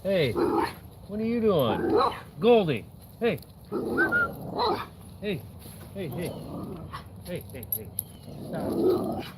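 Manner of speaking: distant calls to the dog, off-mic; shouting for the dog across the yard; calling from far away. Real, not acted.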